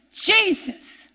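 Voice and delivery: a lifted, pleading call of the name; crying out like blind Bartimaeus. Retold or imitated. Preacher reliving her housework prayer, pleading call. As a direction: reach up on Jesus, begging for mercy. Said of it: "I turned into blind Bartimaeus".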